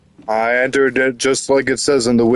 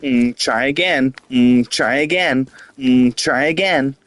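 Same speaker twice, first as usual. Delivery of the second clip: SpongeBob voice; 3 semitones higher than usual. Retold or imitated. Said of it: "It's literally how I just felt".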